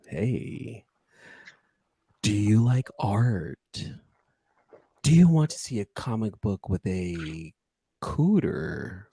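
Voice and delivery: slow sultry promo read. Shown as a demonstration. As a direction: draw it out like a sexy commercial. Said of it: "approach it the same way".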